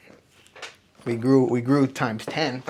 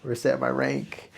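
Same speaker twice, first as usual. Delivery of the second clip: ordinary talk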